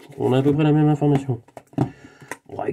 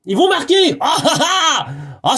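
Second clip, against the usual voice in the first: high bursting laugh through the words; 9 semitones higher, slower than usual. Real, not acted. Laughing at the joke's punchline, bursting out high. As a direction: crack up at the punchline, much higher.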